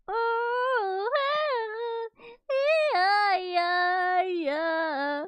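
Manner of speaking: high, loud yeahs cracking with laughter; words breaking into giggles; laughing through words. Real, not acted. Streamer laughs at infectious crying clip, breathless giggling.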